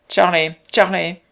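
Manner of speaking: loud, high, drawn-out call; calling at full strength. A narrator's reading. Mother calling her son Charlie, shouting with all her might. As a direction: shout the name out slowly to carry. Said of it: "cria-t-elle de toutes ses forces".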